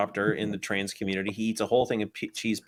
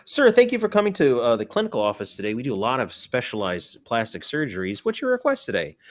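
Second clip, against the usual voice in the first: receptionist; 2 semitones higher than usual. Acted. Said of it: "clinic receptionist role".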